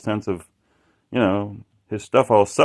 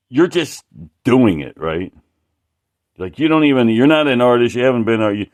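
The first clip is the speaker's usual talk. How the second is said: retold angry guy; 6 dB louder than usual. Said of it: "It, like, he was pissed".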